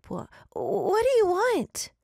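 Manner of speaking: high, slow, shaky but bold demand; emboldened demand. Acted. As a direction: force the question out bravely. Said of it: "Alice demanded, emboldened for the moment".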